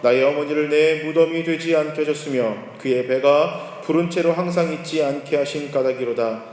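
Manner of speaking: slow, solemn scripture reading. Acted. Preacher reading scripture slowly to the congregation. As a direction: read the verses out slow and solemn.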